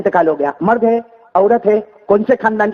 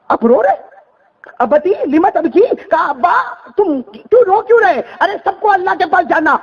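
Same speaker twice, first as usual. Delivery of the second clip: much higher daughter's voice, slow; young daughter; 9 semitones higher than usual. Acted. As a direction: plead gently with your father in her voice.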